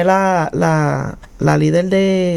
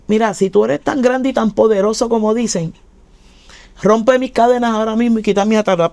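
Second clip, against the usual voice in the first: higher, urgent challenge to God; pleading challenge; 4 semitones higher than usual. Retold or imitated. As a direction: demand it with desperate urgency. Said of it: "me le paro de frente así a Dios". (reto desesperado a Dios, más agudo)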